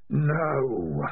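lightly voiced eerie spirit; voice like distant wind. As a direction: sound like wind in distant trees. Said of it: "like the sound of wind in distant trees".

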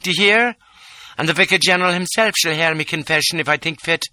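high, imperious tirade; royal rage. A narrator's reading. Lola raging at the little man, imperious. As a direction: scold him like a furious countess.

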